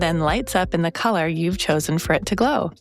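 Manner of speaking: friendly podcast ad read; sponsor ad read. Acted. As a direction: read the sponsor spot to listeners. Host reads sponsor ad.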